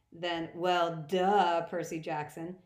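loud, sneering "duh"; mock him with a loud duh; sarcastic. God sneers at boy.

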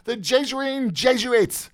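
very high, loud gleeful exclamation; delighted cry. Acted. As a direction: crow with delight, voice leaping up. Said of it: "laughing with delight, cried".

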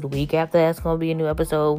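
rattled off quickly; fast. Shown as a demonstration. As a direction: rush through the repeat. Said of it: "repeats it faster".

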